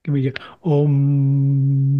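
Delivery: unvoiced whisper aside. Real, not acted. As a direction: breathe it out as a whisper.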